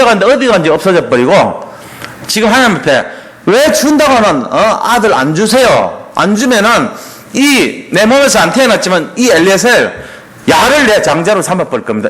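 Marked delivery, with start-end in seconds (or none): 3.5-12.1 acted demand with a touch of threat; mock threatening. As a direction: lay down a mild ultimatum. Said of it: "이렇게까지 막 위협하잖아". (은근히 위협하듯이)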